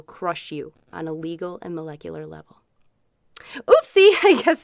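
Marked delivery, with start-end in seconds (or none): 3.6-4.6 a high, loud fake oopsie; mock oops. Host catching her own threat, high loud mock oopsie. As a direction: squeak out a cutesy oops.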